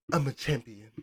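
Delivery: soft mock Greek-accented English; lightly hammed champion boast; poor English impression. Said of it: "With poor English".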